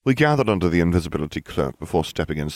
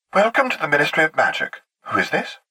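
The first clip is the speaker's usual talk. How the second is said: lightly voiced, higher-pitched announcer; tinny woman's voice; 10 semitones higher than usual. A narrator's reading. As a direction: greet like an automated receptionist. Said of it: "A woman's tinny voice said".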